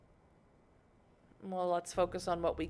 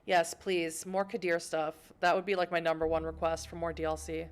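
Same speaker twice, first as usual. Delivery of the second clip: excited, a bit louder begging; eager plea; 3 dB louder than usual. Real, not acted. Gamer begging developers for more content, eager. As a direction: practically beg the developers for it.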